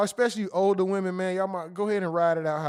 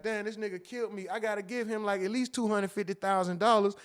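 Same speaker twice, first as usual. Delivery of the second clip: quiet mock awe; 6 dB quieter than usual. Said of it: "She gonna be like".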